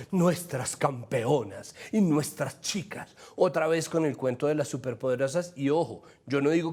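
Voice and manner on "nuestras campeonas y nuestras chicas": slow, drawn-out imitation of gushing media; mock media hype. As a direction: parody the adoring press, stretching the words. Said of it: "diciéndolas".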